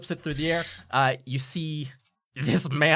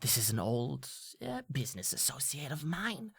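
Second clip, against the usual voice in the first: hushed; 10 dB quieter than usual. Acted. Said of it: "she kinda whispers".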